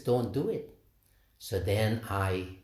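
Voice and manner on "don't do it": a firmer, slightly raised retold insistence; insisting. Swami insists a second time that he not give, mildly firm. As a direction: press the no home, mildly insistent. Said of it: "he insists".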